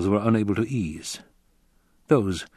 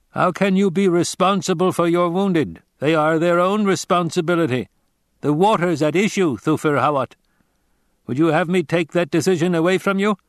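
a grave stranger giving a warning; Fremen warrior; 8 semitones higher, 4 dB louder than usual. Acted. Narrator voices the Fremen.

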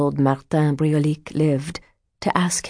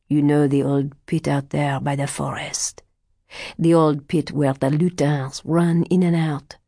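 put-on old fortune teller. Martin hints at dark plan.

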